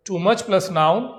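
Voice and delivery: very slow, every word laid out for students; slow rule dictation. Shown as a demonstration. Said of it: "teacher spells out the rule".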